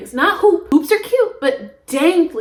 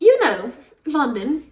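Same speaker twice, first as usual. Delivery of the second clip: retold put-on British accent; a light, imitated British accent; slower than usual. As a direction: casually fake a British accent. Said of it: "We were talking in an accent".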